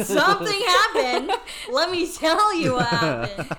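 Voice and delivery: loud, high, emphatic comeback; punchy indignant retort with laughter in it; mock indignant. Friend setting her straight next morning, loud and indignant.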